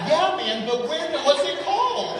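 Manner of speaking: mock pushy asker. Imitating people pressing about the church, laughing. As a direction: play the nosy asker pressing for a name. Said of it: "And they're like".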